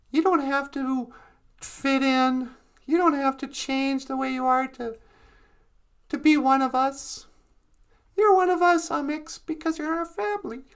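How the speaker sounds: softly voiced big sister; gentle, understated storybook comfort; tender reassurance. Lilith reassures sister she belongs.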